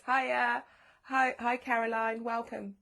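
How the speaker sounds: loud, high, bright hello to a friend; greeting Caroline as she joins, excited; delighted greeting. Real, not acted. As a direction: call out a happy welcome. Greets a newcomer joining live.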